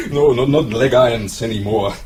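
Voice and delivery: chuckling through the words; amused captain laughing at the joke; captain laughs off the prisoner's leg irons quip. Acted.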